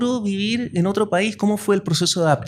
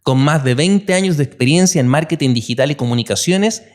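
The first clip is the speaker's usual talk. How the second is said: polished, read-out intro for a guest; podcast guest introduction. Acted. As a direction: present the guest like an announcer. Host reads the guest introduction. (presentación de invitado de podcast)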